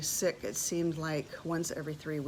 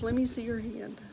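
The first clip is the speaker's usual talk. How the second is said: choked up; 3 semitones higher than usual. Real, not acted. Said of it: "I'm gonna get emotional".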